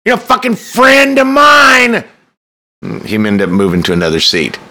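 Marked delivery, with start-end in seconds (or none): 0.0-2.0 loud, slow, high barked outburst. Retold or imitated. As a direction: bark it at the snobby star. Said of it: "I barked".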